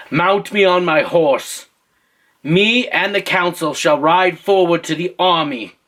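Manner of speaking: lightly put-on British royal accent; stately storybook British accent. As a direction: declare it as a British king. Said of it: "I'm doing a British accent again".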